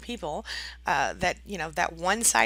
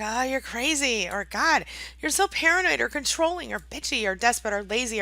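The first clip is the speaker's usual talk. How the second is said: higher-pitched, mildly indignant imitation; mock offended outrage; 4 semitones higher, 4 dB louder than usual. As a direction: hurl accusations as if deeply offended. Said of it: "highly enraged or very offended or hurt".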